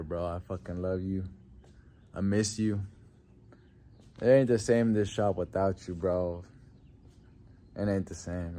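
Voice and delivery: soft, heavy-hearted memorial words; grieving tribute. Real, not acted. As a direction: speak to a lost friend, low. Emotional tribute to late friend.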